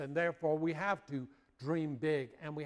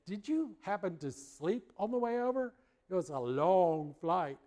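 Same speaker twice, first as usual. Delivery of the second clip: higher-pitched, lightly acted questioning; leading question; 5 semitones higher, 3 dB louder than usual. Chaplain asks exhausted sailor about sleep, high leading question. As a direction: ask it high, as a pointed suggestion.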